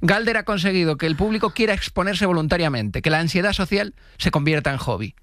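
lifted scripted intro, settling at the end; scripted podcast intro delivery; presentation read. Acted. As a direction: read out a playful guest introduction. Reads the show's presentation.

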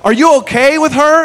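high-pitched amazed blurting; acted astonished bystander; awestruck disbelief. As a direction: marvel at him, then check he's okay. Amazed bystander addressing the cop.

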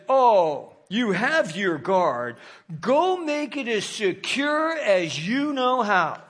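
slow, scornful dismissal of the priests; mocking. Pilate mocking the priests' request, scornful. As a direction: drawl it out like a sneering governor. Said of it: "listen, he's mocking them now".

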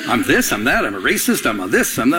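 sing-song list, each item rising; mock recital. Pastor repeating what critics say of him, mock recital. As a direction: reel off accusations in disbelief. Mimicking list of online accusations.

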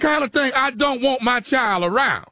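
scolding in mock outrage; provoking, emphatic reprimand; indignant shout. Prankster's acted quarrel.

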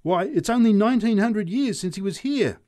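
put-on loud, high drunken heckle; drunk shouting. A narrator's reading. Drunk heckling the street preacher, shouting. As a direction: bellow it back at the preacher. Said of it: "shouted the drunk".

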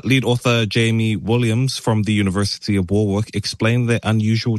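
measured radio news delivery; news read. Acted. Radio host reading a space discovery story to co-host, news read. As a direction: read the story out formally and evenly.

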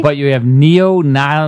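lightly played doctor, slow delivery; doctor giving diagnosis. Host as Lisa's doctor attempting the disease name, mock solemn. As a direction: stumble slowly through a diagnosis. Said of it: "Here's Lisa's doctor".

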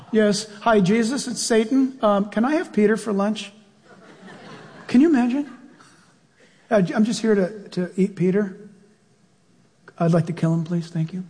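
mock-courteous phone request; lightly voiced, overly polite devil; polite Satan caller. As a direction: play Satan as a meek customer.

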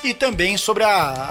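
usual speaking voice

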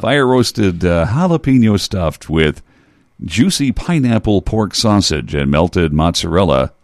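commercial voice. Shown as a demonstration. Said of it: "I'm using my commercial voice".

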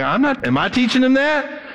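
mild mock astonishment; surprised. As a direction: catch yourself wondering, bemused. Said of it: "I'm like".

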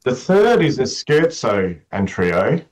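croaky morning voice. Real, not acted. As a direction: voice still rough from sleep. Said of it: "morning voice is showing".

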